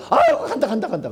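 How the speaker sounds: high, loud panicked yelp, half laughing; a laughing mock demon crying out as it flees; fleeing demon. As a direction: play a tortured demon bolting, laughing. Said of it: "쉽게 말하면 그놈들이 말하는 겁니다".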